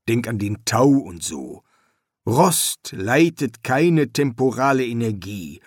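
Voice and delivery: a hint of an irritated craftsman; grumpy builder. The builder lectures the pharaoh on steel, lightly grumpy.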